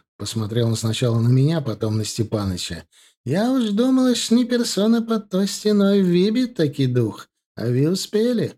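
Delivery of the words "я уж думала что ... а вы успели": much higher, fussy excited voice; excited chatterer. A narrator's reading. Fima gushes at the lawyer, high and fussy. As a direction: gush with relief.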